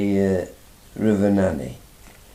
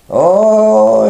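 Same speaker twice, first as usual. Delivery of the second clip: surprised oh; 12 semitones higher, 11 dB louder than usual. Retold or imitated. Englishman surprised by Irish fishing.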